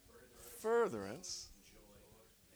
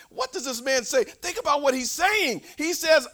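normal talking voice

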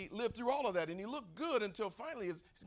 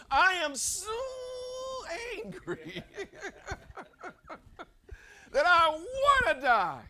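loud, high, drawn-out enraged shout; acted angry outburst; 14 semitones higher, 10 dB louder, slower than usual. Jonah telling God how angry he is, furious shout. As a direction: play Jonah bellowing his anger at God. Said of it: "just how angry he is".

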